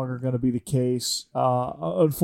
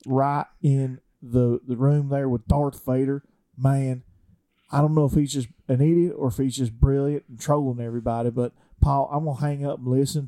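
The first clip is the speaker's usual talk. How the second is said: put-on South Georgia accent. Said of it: "give us a South Georgia accent".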